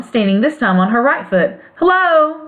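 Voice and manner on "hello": the Tin Woodman answers Hello evenly, as a greeting; calm reply. Acted. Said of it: "replied the Tin Woodman calmly".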